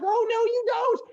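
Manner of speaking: high, hammed-up defiant cry. Rabbit chasing turtle at the line, defiant cry. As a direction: cry out to stop a rival.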